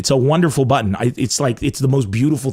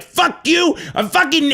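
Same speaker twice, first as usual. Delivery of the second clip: much higher mock yell of an angry hater; imitating raging hater; 13 semitones higher, slower than usual. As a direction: shriek it like a furious troll. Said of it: "spits hate in your face and they're like".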